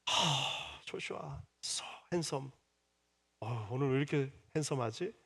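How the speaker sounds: soft, tender praise for a little son; doting father praise. Retold or imitated. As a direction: coo over the boy like a proud dad. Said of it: "우리 아들에게는".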